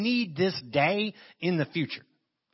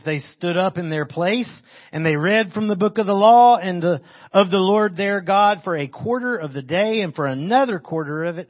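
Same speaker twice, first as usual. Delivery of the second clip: projected public Bible reading; loud opening, easing off as the verse goes on; scripture reading; 3 semitones higher, 7 dB louder than usual. Acted. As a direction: read the verse out firmly to the congregation. Reads scripture aloud to congregation.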